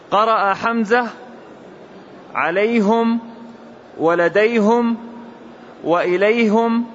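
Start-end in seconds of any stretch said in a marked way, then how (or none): 2.3-6.9 عليهم, ولديهم, وإليهم read with "hum", a u after the h; damma on the ha. Shown as a demonstration. Student reads the variant recitation to the teacher, -hum endings. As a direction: give each word a -hum ending: alayhum, ladayhum, ilayhum. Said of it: "بضمها آتها".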